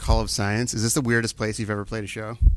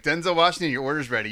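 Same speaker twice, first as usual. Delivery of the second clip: raised voice, calling a name across the store; barista calling out; 4 semitones higher, 4 dB louder than usual. Retold or imitated. Barista calling a customer's order.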